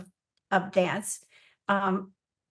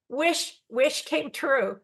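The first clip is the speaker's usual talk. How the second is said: teary; 4 semitones higher, much slower than usual. Real, not acted. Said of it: "I do get crying".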